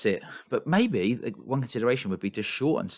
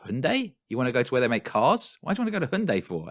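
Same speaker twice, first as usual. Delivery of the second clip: high, fast, baffled taxi driver; 5 semitones higher, 3 dB louder than usual. Retold or imitated. Imitating a Seoul taxi driver puzzled by his passenger. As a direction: rattle it off like a confused cabbie. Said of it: "the guy's like".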